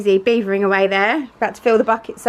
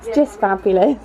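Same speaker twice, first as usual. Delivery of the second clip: muffled behind a plastic visor. Real, not acted. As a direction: talk through a face shield, muffled. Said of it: "if I sound a bit muffled".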